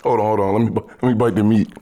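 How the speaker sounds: talking with mouth full; chewing while talking. Real, not acted. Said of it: "listening to us chew".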